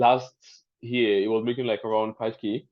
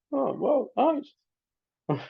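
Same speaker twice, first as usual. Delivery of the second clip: a real little discovery gasp; delighted surprise; 13 semitones higher, much slower than usual. Real, not acted. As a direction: pitch jumps high on oh. Finds copywriter in group.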